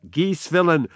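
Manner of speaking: snapped high and loud; angry interruption. Acted. Macbeth cutting off the servant, angry interruption. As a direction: cut him off in anger. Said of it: "Macbeth interrupts him".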